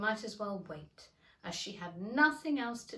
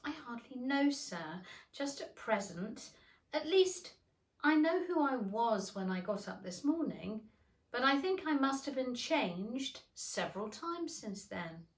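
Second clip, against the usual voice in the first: shy; 4 semitones higher than usual. Acted. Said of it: "Alice replied rather shyly".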